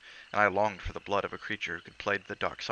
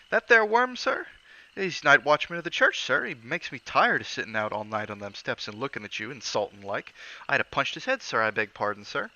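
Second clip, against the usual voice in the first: Cockney servant, higher and louder, indignant; Cockney lad huffing at a worm; Cockney bellboy; 4 semitones higher, 5 dB louder than usual. Acted. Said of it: "Thomas' Cockney dialect".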